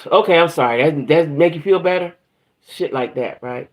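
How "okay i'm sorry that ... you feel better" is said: mock sarcastic sorry, a bit louder; sarcastic apology. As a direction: toss off a snide apology. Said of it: "if you say it like that".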